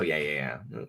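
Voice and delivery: ordinary talk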